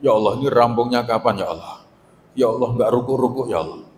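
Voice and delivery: sinking, trailing-off sigh on each "ya Allah"; stressed worshipper, lightly groaning. Retold or imitated. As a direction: moan like someone stuck in an endless prayer. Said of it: "itu tambah stres lagi".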